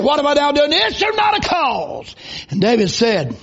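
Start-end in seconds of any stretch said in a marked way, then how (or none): 0.0-2.2 indignant cry. Retold or imitated. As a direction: demand it, building to a shout on not. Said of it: "He said".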